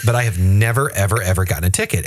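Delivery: eager, insistent bragging; boastful driver voice. Retold or imitated. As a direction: protest too much, quickly. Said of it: "he said".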